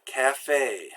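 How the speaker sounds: café ending on a pure, held 'ay'; French café, lips back, no glide. Shown as a demonstration. Teacher giving an example word, pure A sound. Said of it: "It's a pure sound".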